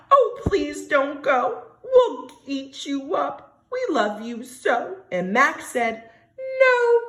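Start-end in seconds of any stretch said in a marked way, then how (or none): 0.1-5.0 pleading wild things. Acted. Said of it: "the wild things cried". 6.4-7.0 firm refusal. Acted. Max refusing.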